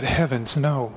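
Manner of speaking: ordinary delivery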